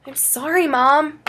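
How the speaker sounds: put-on high-pitched, tearful child; tearful apology. A narrator's reading. Child apologises to mom as a tear rolls down, tearful. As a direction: apologise on the edge of tears. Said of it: "as a tear rolled down my cheek".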